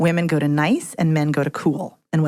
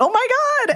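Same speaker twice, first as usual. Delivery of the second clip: leaping high-pitched exclamation. Showing how freely going up high in pitch sounds. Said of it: "going up high".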